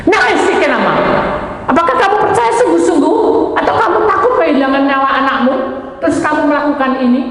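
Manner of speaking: a high, forceful divine challenge; voice of God questioning. Retold or imitated. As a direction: press him hard as God would.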